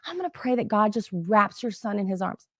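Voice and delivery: softly imitated tender prayer promise; sugar-sweet sympathy. Support rep praying for customer's sick son, gentle sympathy. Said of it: "She was actually so sugar plum sweet".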